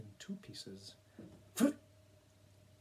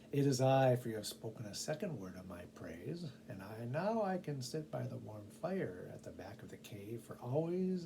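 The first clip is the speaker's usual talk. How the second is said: triumphant cat. Acted. Cat claims its reward.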